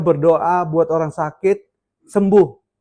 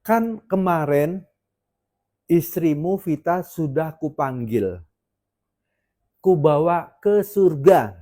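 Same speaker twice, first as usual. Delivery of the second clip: slow, measured quote of God; God speaking; slower than usual. Retold or imitated. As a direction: pronounce it slowly, spacing out each phrase. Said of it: "ngomongnya gini". (suara Tuhan, pelan dan terukur)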